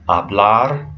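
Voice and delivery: "hablar" as ah-BLAR; Spanish "hablar", final syllable stressed; stress on second syllable. Shown as a demonstration. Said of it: "you're stressing the second syllable".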